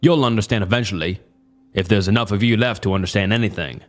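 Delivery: put-on quick, menacing Southern accent; cold Southern threat, a bit fast. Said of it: "his deep Southern accent".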